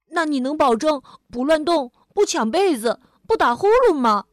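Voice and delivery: firm list rising into a question; demanding a promise. Acted. Louise sets bed-sharing rules for the monster, insistent. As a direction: tick off each condition pointedly.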